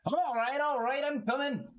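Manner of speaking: a husband giving in to his wife; grudging husband. Acted. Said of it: "He goes".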